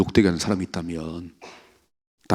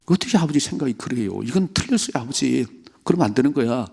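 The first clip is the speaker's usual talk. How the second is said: pleading son; 4 semitones higher than usual. Acted. Jonathan rebukes his father.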